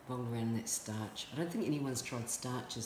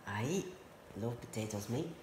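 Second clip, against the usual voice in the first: I love potatoes in a jokey Irish lilt; lightly held Irish accent, trailing off; a hint of stage-Irish accent; put-on Irish accent. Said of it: "Maybe I'll put in an accent".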